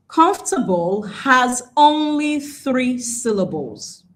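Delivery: slow and deliberate, spacing out COMFORTABLE and THREE; emphatic caution. Shown as a demonstration. Teacher cautioning learners about comfortable, slow and emphatic. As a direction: draw out "Comfortable has only three syllables" slowly. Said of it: "a very, uh, quick caution".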